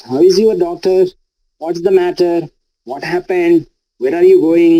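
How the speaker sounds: questions lifted on "doctor", "matter", "happened", "going"; friendly rising tone. Shown as a demonstration. Teacher demonstrating friendly questions, rising tone. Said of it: "we use rising tone".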